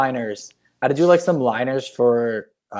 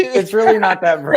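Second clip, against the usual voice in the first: exasperated shout; 5 semitones higher than usual. Real, not acted. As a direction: yell it in protest. Repeated denial, now shouted.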